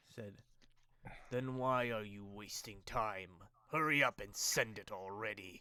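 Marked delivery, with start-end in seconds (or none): 1.3-5.6 echoing, booming, deep bellowing voice. Voicing an unseen presence in the darkness that demands tribute, deep bellowing voice. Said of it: "deep bellowing voice like echoing forth".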